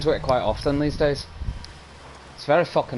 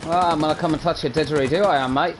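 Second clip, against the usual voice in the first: put-on Aussie accent; 3 semitones higher, faster than usual. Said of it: "Aussie's pretty easy".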